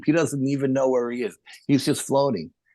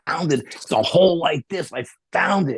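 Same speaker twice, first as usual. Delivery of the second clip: put-on high, thrilled retelling of a kid's find; excited; 5 semitones higher than usual. Boy tells cousin about the cavern, excited high voice. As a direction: keep squealing that you found it. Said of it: "he's really excited".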